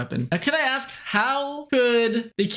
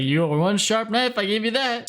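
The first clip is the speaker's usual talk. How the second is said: put-on American accent; 4 semitones higher than usual. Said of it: "American mode".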